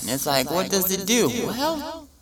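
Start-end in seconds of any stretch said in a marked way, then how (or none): 1.3-2.1 mock commercial narrator. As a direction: sell it like a cheesy ad. Mock drug commercial pitch.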